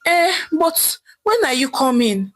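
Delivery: jailed husband desperately asking his wife when she comes. Acted. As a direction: press her, desperate to be freed. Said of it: "Chief asked again desperately".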